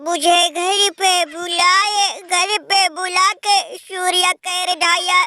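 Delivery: hammed-up sobbing complaint, dragging the words; mock wailing lament. Losing team fan wails to his brother, hammed-up sobbing. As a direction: wail like a beaten team begging for pity.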